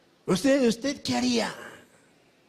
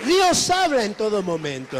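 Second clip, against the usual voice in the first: loud proclamation; 6 dB louder than usual. Real, not acted. Preacher to his congregation, a loud proclamation. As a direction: call it out loud over the congregation.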